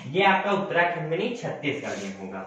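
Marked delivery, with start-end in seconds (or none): 1.4-2.4 low, soft self-correction; corrected aside, low and soft; quiet correction. Shown as a demonstration. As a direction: murmur the right answer to yourself. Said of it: "sorry, United कह रहा हूँ".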